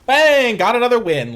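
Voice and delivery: loud, high triumphant yell; bursting out with a victory cry; excited shout. Real, not acted. Card game win celebration.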